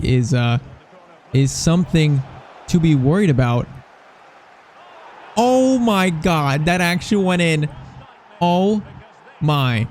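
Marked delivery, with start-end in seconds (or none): 5.4-9.9 stunned. Real, not acted. Stunned by a goal in game.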